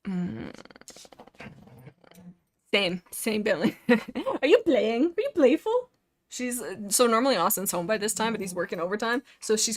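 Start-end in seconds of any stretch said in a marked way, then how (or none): 3.9-5.9 high, sing-song pet talk with a laugh. Real, not acted. Streamer cooing at her dog Bentley, high pet-talk voice. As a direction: coo up at the dog playfully.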